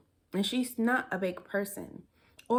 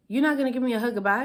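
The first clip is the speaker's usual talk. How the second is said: incredulous; 3 semitones higher, 5 dB louder, much faster than usual. Retold or imitated. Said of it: "she was like".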